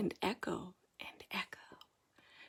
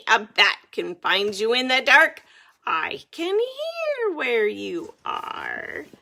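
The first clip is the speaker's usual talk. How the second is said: screeching bat; 6 dB louder than usual. Acted. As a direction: menace them in the dark. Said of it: "Bad Egg screeches".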